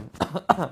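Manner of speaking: a short, pushed demo cough; forced cough. Shown as a demonstration. Healer shows patients how to cough it out, forced cough. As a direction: cough on purpose to expel it. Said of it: "Batuk-batukan, seperti itu".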